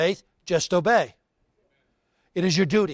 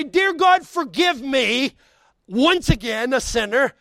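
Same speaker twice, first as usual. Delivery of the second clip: high, raised plea to God; preacher voicing a penitent's plea; acted pleading prayer; 5 semitones higher, 4 dB louder, slower than usual. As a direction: cry out slowly for mercy, acting the sinner. Acting out a sinner's prayer.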